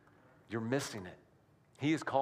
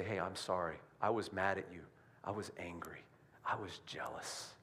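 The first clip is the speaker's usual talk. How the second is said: hushed, fading to a whisper; soft confession; 5 semitones lower, 6 dB quieter than usual. Retold or imitated. Confessing to a friend, hushed to a whisper. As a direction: confess it quietly, almost breathless.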